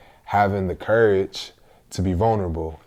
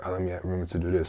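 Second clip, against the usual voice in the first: fast self-talk; 6 dB quieter, much faster than usual. Retold or imitated. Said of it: "trying to remember".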